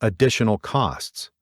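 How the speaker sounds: "additional costs" set apart with deliberate emphasis; "additional costs" said pointedly after a pause. A narrator's reading. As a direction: lean meaningfully on "additional costs". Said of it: "putting the proper emphasis on the words".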